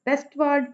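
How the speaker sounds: वेस्टवर्ड with west and ward both stressed; both syllables stressed. Shown as a demonstration. Teacher showing a spondee, both syllables equal. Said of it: "दोनों stressed हैं".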